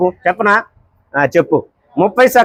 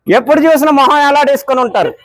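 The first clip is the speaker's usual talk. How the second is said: squeaky, cheeky sidekick voice pitched up; high put-on voice; 7 semitones higher than usual. Prankster teasing the uncle at the tea stall in a high squeaky voice. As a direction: tease him in a high silly voice.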